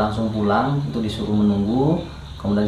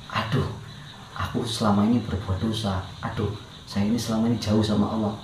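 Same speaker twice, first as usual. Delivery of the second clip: soft remorse; 5 dB quieter than usual. Retold or imitated. Inner remorseful realization.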